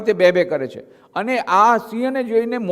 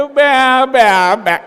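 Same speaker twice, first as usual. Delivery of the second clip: sheep bleat; 3 semitones higher, 5 dB louder, much slower than usual. Acted. Mock bleat at audience.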